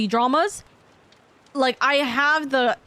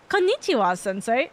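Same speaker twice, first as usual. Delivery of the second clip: put-on white girly. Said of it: "white girly".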